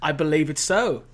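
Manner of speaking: light put-on British accent. Guest teasing the host in a British accent. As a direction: chat along in a casual British accent. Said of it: "I'll break the accent now".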